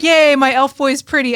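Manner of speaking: bright excited squeal; gushing cheer. Retold or imitated. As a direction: gush over the pretty elf. Mock gushing over character.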